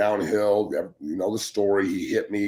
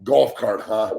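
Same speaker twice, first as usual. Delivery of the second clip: loud, sneering golf cart jibe; a mocking dig at an injured player; mocking jab; 5 dB louder, slower than usual. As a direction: needle him like a smug coach. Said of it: "he opens the door and goes".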